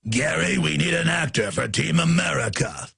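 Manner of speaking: lightly voiced puppet movie character, calling to Gary; a light send-up of a film character giving an order; Team America puppet. Host spoofing a Team America boss asking Gary for an actor. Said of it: "they can't even".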